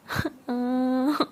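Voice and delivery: put-on whimpering sob; mock crying. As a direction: act out a childish cry. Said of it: "तारा रोने लग जाती है". (रोने की नकली आवाज़)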